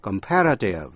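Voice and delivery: comparative with the beat on its second syllable; stress on "pair". Shown as a demonstration. Teacher sums up the word family, comparative stressed on "pair". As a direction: say comparative as com-PAR-a-tive. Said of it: "nhấn vào vần pair".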